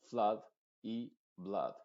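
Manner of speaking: FLOOD and BLOOD as FLUHD, BLUHD; short neutral 'uh' in FLOOD and BLOOD; modified U. Shown as a demonstration. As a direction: say FLOOD and BLOOD with relaxed lips. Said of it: "se pronuncia con la U modificada".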